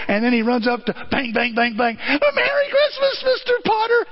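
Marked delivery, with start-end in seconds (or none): 2.0-4.1 joyful call. Retold or imitated. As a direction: sing it out to his nemesis. George yelling to Potter.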